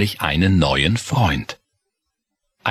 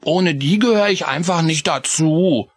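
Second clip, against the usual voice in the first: mild sigh; 11 semitones higher than usual. Acted. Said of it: "seufzte Chris".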